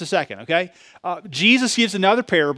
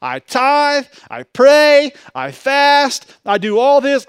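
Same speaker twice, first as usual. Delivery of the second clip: higher and louder, bragging each deed; boastful Pharisee; 7 semitones higher, 6 dB louder, much slower than usual. Retold or imitated. Preacher mocks the Pharisee bragging in the temple, loud and higher. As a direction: crow your good works up to heaven. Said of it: "you're in the temple going".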